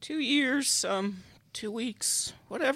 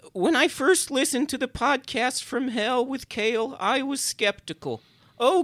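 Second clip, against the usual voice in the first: dramatic read-aloud of a glowing fan letter; emphatic, measured letter reading; earnest testimonial reading; 3 dB louder than usual. Acted. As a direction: declaim it with heartfelt conviction, pausing between phrases. Reads out listener mail.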